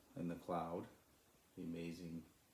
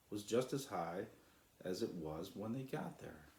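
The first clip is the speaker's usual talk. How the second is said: calm, steady storybook reading; story narration; 4 dB louder than usual. A narrator's reading. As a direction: read it like a bedtime story for children.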